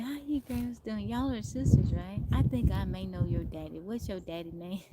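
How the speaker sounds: imitating an older gentleman's country twang. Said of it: "the way he said it, it was funny".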